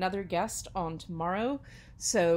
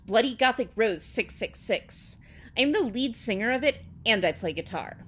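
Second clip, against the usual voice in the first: emphatic, dramatic fan fiction reading; hammed-up story narration; 3 semitones higher, 8 dB louder than usual. A narrator's reading. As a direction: read it out with mock gravity.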